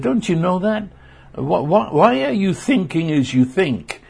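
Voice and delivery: high-pitched, challenging questions; mock incredulous questioning. God challenging how people think, incredulous questioning.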